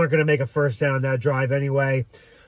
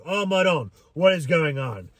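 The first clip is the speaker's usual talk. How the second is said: lightly put-on Italian voice, a mild lament; mock-Italian exasperation, not raised; Italian accent. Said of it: "In my Italian voice".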